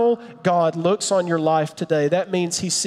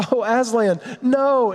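Lucy pleading; 5 semitones higher, slower than usual. Pretend. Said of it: "And she starts crying".

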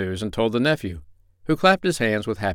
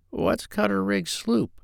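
whispering pig; 11 semitones higher, 3 dB quieter, slower than usual. A narrator's reading. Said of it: "whispered Gub-Gub".

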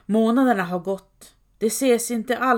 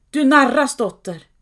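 a sudden scream of pain and accusation, high and loud; anguished scream; 6 semitones higher, 8 dB louder than usual. A narrator's reading. Mother screams at her daughter in pain, loud and high. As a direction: cry out in pain at the lying daughter. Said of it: "mor skrek av smärta".

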